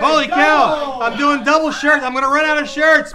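happy host groaning about prizes; excited exclaim. Real, not acted. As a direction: laugh it off as he runs out of shirts. Reacting to the spin result.

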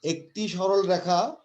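very slow, word by word; teacher slowly reading the hard fifth postulate; slow dictation. Shown as a demonstration. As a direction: read it out so they can follow. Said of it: "আমি আস্তে আস্তে বলছি".

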